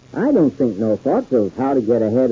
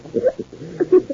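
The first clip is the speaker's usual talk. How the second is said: high gleeful cackle; 3 dB quieter than usual. Acted. Gleeful laugh after triumph.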